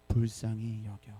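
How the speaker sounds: low, slow, weighty 불쌍히 여겨; emphatic answer. Shown as a demonstration. Pastor giving the answer, low and slow. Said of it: "어떻게?".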